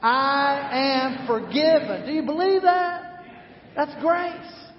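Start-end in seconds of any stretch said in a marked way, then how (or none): 0.0-2.1 louder, higher I am forgiven, forgiven ringing out; building declaration. Shown as a demonstration. Pastor urging the church to say it louder. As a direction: proclaim it with rising force. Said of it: "One more time".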